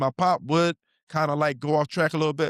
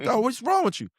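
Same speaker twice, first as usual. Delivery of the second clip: exasperated disbelief; 10 semitones higher than usual. Retold or imitated. Scolding timid son.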